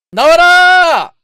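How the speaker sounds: high, loud, slow yell; pleading shout. Real, not acted. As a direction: drag out the plea. Begging the gacha for a drop.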